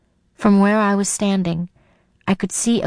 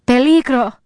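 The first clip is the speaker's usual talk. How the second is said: loud panicked warning, higher; terrified shout; 5 semitones higher, 6 dB louder than usual. A narrator's reading. Sarah echoing Rosa's terrified warning. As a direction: cry it out in terror. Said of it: "Rosa's terrified voice".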